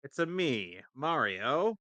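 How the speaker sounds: Mario. Retold or imitated. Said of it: "Your Italian accent was terrible".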